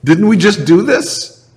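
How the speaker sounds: a light Jesus voice, weary and exasperated, pitched high on "Really?"; weary exasperation. Retold or imitated. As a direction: let it sound like the shoulders just dropped. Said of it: "shoulders drop and kinda go".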